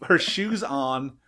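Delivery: laughter breaking into the story; slow down, trying to get through the giggles; laughing while telling. Real, not acted. Cracks up telling family story.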